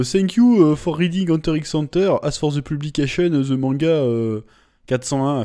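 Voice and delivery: heavy French-accented English reading. Shown as a demonstration. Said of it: "attention l'accent". (anglais avec fort accent français)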